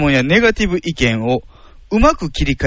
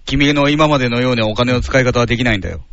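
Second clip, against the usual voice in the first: lower, lecturing dad role; lightly voiced father testing the suitor; a hint of a solemn fatherly warning; 4 semitones lower, faster than usual. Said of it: "お父さん".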